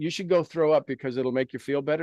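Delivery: ordinary delivery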